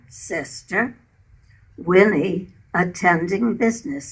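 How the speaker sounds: measured verse reading in short phrases; deliberate, line-by-line poem reading; narrative poem recital. Acted. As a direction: recite a war story in verse, pausing between phrases. Reads her story poem.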